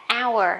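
"hour" said with an "ao-ờ" glide; pronunciation demo. Shown as a demonstration. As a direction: sound out "hour" as ao plus ờ. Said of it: "Nó thiên về hai trường hợp". (đọc "hour" thành âm "ao-ờ")

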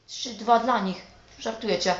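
loud, high disbelieving outburst; outraged shout. Real, not acted. Gamer shouting at the scoreboard after conceding, outraged. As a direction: blow up at the scoreboard.

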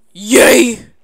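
whispered yay; whispered cheer. Real, not acted. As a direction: cheer under your breath. Cheer after hard stretch.

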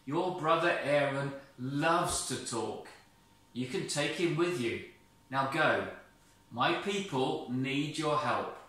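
a lightly voiced firm, calling God; name him with authority. God sends Moses.

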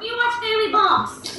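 high-pitched mimicked child; playful high kid voice; imitating excited son. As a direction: call out like a delighted little boy. Mother voices her excited young son.

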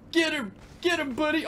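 high, excited battle call; urging on. Real, not acted. Urging sidekick to attack.

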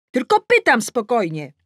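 high, insistent protest. A narrator's reading. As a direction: protest loudly that you're calm. Shouted quarrel, claims to ask calmly.

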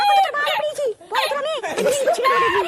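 threatening shout. Acted. Wife threatens husband, laughing.

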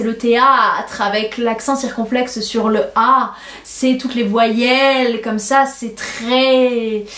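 THÉÂTRE and VOYELLES with long drawn-out vowels; slow, stretch the A in théâtre and the last vowels like old tragedy; diction grandiloquente. Shown as a demonstration. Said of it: "c'est extrêmement grandiloquent". (diction grandiloquente, voyelles très étirées)

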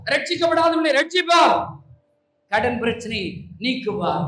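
loud, insistent preaching, pressing each promise; fervent preaching. Acted. Preacher calling the congregation to vow, loud and pressing.

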